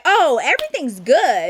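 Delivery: lilting mock-casual reassurance; mock innocent. Girl to the security brother who questions her, mock innocent. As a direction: play the girl acting like all is fine. Retold reply of girl caught scheming.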